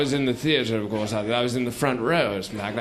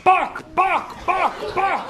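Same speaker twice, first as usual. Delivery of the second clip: crowd yelling; much slower than usual. Retold or imitated. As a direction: bark the name over and over like a chant. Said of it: "were all yelling".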